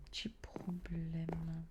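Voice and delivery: soft unvoiced whisper. Real, not acted. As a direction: whisper so nobody wakes. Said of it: "je peux pas parler fort".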